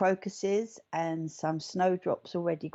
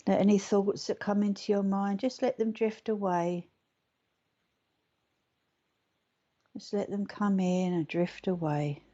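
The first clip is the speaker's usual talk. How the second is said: guided meditation. Acted. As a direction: guide them gently into relaxation.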